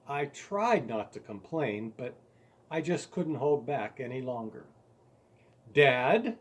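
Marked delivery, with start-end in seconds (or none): 5.7-6.4 a loud, firm call of "Dad,"; declaring. Retold or imitated. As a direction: announce it to get Dad's attention. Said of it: "I declared".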